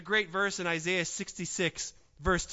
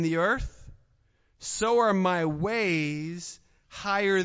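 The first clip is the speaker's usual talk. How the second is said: slow, measured scripture reading; 4 dB louder, slower than usual. Acted. Pastor reading Isaiah to the congregation, slow and measured. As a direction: lay out the verse word by word. Reads Isaiah verse slowly.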